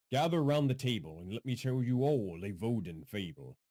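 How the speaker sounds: restrained storyteller's opening; measured fable-teller delivery; storyteller intro. Pretend. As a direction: invite listeners into a fable, without booming. Storyteller intro retested at softer level.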